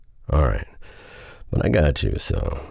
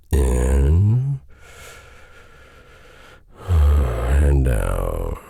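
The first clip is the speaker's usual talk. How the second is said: slow breathing cue; much slower than usual. Shown as a demonstration. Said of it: "take a couple deep breaths for me".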